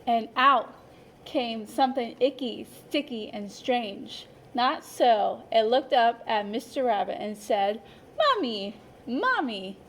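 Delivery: lively, expressive picture-book narration; storyteller voice for a class of young children; reading to children. A narrator's reading. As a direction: read it like story time for little kids. Teacher reads picture book aloud.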